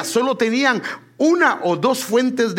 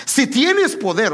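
mocking; 4 semitones higher, slower than usual. Preacher voicing Jesus' brothers taunting him, mild mocking. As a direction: drag it out as a sneer. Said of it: "sino en forma de burla".

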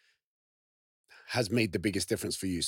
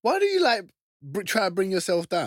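loud protest; 10 semitones higher, 7 dB louder than usual. Real, not acted. Friend protests at self-deprecation.

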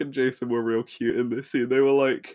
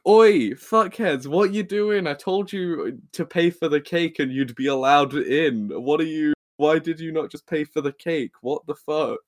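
mock angry Ernie; 2 semitones higher, 4 dB louder than usual. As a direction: scold them like a fed-up cafe owner.

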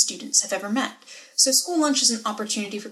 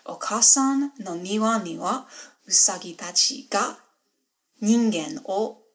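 put-on Japanese learner accent. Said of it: "screw up my absolute best Japanese".

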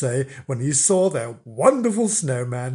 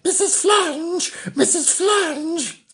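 put-on much higher, sing-song children's call with a laugh; higher, giggly sing-song of children calling; high kids' call; slower than usual. Shown as a demonstration. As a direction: call "Missus Flange" high and slow like eager kids.

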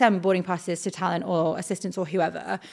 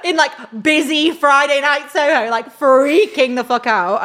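laughing; 6 semitones higher, 7 dB louder than usual. Real, not acted. Laughing retelling of panic.

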